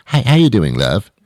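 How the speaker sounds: lightly voiced British husband, lifted start; British accent. British guy comes home to his wife, light British accent. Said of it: "British guy comes, comes home".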